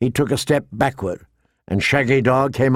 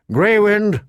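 higher-pitched, drawn call; 8 semitones higher, 3 dB louder than usual. A narrator's reading. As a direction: summon a wolf across the hall. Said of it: "with a sigh and called".

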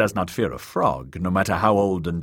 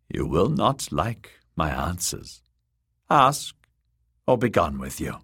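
put-on old crone. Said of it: "the crone said".

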